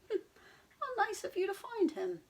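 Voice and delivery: high, loud laughing voice; laughing horse. Acted. Mister Brown thanking the animals, laughing. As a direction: chuckle with pleasure.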